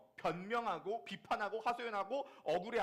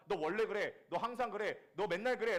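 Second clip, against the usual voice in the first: loud, higher mock accusation; accusing spouse; 4 semitones higher, 7 dB louder than usual. Spouse accusing partner with "always", loud and sharp. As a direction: throw the blame at them. Typical couple quarrel accusation.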